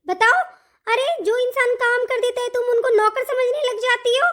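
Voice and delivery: heated, indignant outburst. Acted. Elder daughter-in-law rails at being treated like a servant, angry. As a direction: argue back with mounting indignation. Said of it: "चिल्लाती है मुझ पे".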